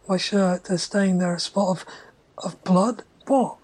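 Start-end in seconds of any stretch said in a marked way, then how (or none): 2.4-3.6 whisper. Acted. Narrator notices blood stain.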